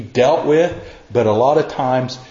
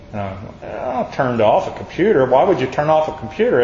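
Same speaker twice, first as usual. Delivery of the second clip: mock baffled. Mock baffled reply in story.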